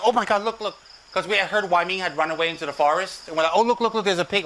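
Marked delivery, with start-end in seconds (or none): 0.0-0.8 excited spotting. Retold or imitated. Spotting someone in forest. 3.5-4.4 excited spotting. Retold or imitated. Spotting pig in forest.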